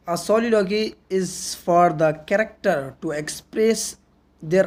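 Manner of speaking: slow, measured reading with pauses between phrases; definition read-aloud. Real, not acted. Reads the English definition aloud. (ठहर-ठहर कर परिभाषा पढ़ते हुए)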